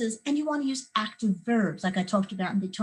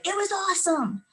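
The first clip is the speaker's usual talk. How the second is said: bored awesome; 10 semitones higher than usual. Retold or imitated. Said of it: "They say".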